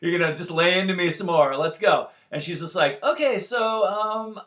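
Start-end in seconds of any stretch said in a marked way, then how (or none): 0.0-2.1 defiant bracing. Retold or imitated. Bracing for an argument. 3.0-4.4 mock casual wife. Wife announces water broke.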